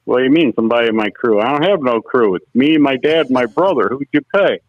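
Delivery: mildly indignant, rapid-fire protest; incredulous retort. Retold or imitated. Driver retelling his reply to the payout girl, incredulous. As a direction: question it in disbelief, quickly. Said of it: "I'm like".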